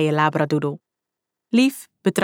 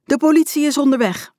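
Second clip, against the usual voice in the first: high, raised shouting; bellowed threat; 9 semitones higher than usual. A narrator's reading. Uniformed man threatens the fleeing kids, bellowing. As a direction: shout it out as a warning. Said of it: "brulde de man".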